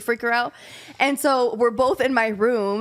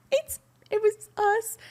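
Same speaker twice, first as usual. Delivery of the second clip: small, high and hushed, caught out; a scared, guilty little admission; frozen confession; 10 semitones higher, 4 dB quieter, slower than usual. Retold or imitated. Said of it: "We were, like, frozen".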